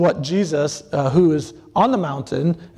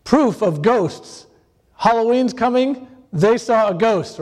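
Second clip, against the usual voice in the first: mocking skeptic; 3 semitones higher than usual. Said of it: "some people might ... they say".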